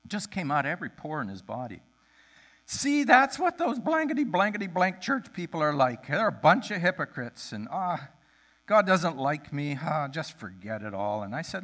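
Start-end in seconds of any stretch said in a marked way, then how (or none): 2.6-11.2 1 emotional outburst. Retold or imitated. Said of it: "unloaded with this pull of emotion".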